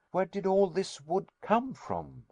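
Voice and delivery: high, amazed question; astonished cry. A narrator's reading. Nephew staring at the raft, high astonished cry. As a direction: ask it in wonder at the heap of wood. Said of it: "I cried".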